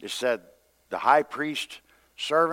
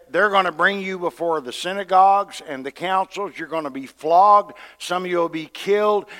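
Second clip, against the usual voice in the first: raised, emphatic voice of warning; 4 semitones higher, 6 dB louder than usual. Acted. Jesus preparing his men for persecution, warning. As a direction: warn them firmly of what is coming. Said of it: "when He was warning them".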